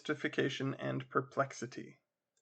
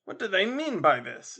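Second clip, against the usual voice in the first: out of temper; 5 semitones higher, 3 dB louder than usual. Acted. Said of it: "thoroughly out of temper".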